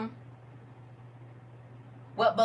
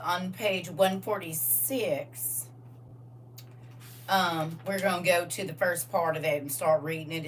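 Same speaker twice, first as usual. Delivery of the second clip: put-on country Southern accent. Teacher directing class to the War Scroll, country Southern accent. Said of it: "if you talk like that".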